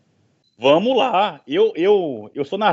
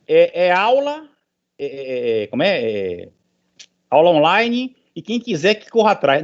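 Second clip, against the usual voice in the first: mock college. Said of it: "Faculdade diz assim".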